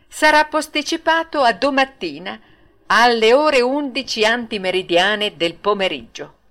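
grandiloquent ringmaster addressing the crowd; showy ringmaster voice, full of flourish; pompous circus director. Acted. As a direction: declaim like a showman barker.

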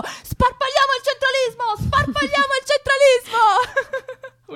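high, loud mock slogan with laughter; imitating a shout. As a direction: chant it like a laughing protester.

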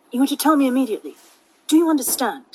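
quick, insistent; fast and firm. Shown as a demonstration. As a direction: rattle it off firmly. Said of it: "that's wrong".

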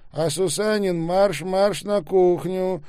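high, loud and drawn-out command; barked order. A narrator's reading. Intercom voice ordering Сусанин to the kitchen, commanding. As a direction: send him off with a loud order.

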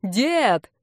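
understated, drawn call; mild shout. A narrator's reading. Drunk guy hailing his imagined grandfather, calling out. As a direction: call out without full volume. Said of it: "прокричал громче прежнего".

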